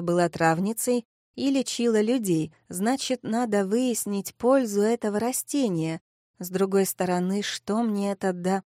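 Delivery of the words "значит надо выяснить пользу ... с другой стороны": ordinary delivery, nothing marked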